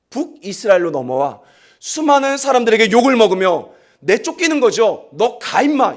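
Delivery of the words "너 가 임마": rough dismissal. Retold or imitated. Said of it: "이렇게 말한 거예요".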